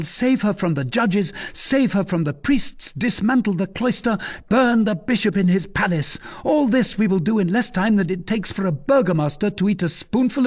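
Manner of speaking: rally drinking companions with boastful gusto; swaggering young rascal holding forth; young scamp haranguing. A narrator's reading.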